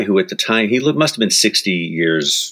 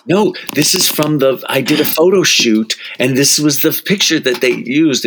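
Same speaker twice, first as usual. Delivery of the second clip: laughing; 7 semitones higher than usual. Retold or imitated.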